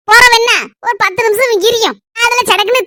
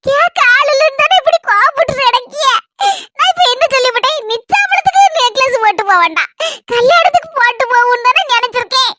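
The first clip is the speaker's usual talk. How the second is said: higher-pitched, mock-weepy protest; put-on tearful complaint; 4 semitones higher than usual. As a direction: plead as if about to cry, faking it. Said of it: "சரி, அழாதடி".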